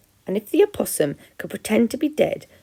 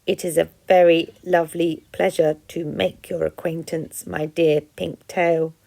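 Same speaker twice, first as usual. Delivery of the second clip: stiff friendly robot; 2 semitones lower than usual. Acted. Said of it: "Roz's friendly demeanour needed some work".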